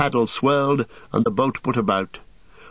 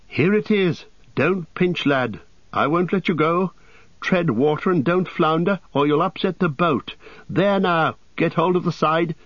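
high-pitched, pressing instructions; urgent rescue; 7 semitones higher than usual. A narrator's reading. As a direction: call out to steady someone in the water. Rescuer urging a drowning friend.

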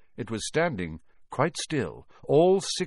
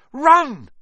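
high, loud urgent shout; yell; 11 dB louder than usual. Acted. Harry urging the others to flee Filch, yelled. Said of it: "Harry yelled".

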